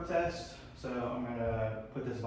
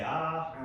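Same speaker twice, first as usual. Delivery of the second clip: saying ahh; 5 semitones higher than usual. Shown as a demonstration. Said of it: "stick your tongue out and say".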